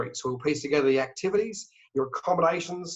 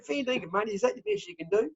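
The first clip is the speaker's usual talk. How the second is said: high-pitched, incredulous Aussie haggler; haggling question; 11 semitones higher, 5 dB quieter than usual. Acted. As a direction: query the price in mock disbelief. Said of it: "you might throw a question out".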